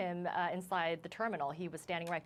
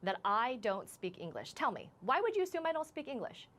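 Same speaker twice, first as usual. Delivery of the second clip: angry retort; 5 semitones higher than usual. Retold or imitated. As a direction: fire it back at him, retold anger. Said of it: "I shot back immediately 'cause I, I was already angry".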